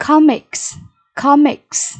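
"Comics" stressed on COM; stress on first syllable. Shown as a demonstration. Teacher modelling vocabulary for pupils, "Comics" stressed up front. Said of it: "nhấn âm tiết số một".

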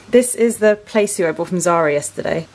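slightly out of breath after trying clothes on; a little puffed, catching breath between words. Real, not acted. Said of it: "Oh, I'm out of breath".

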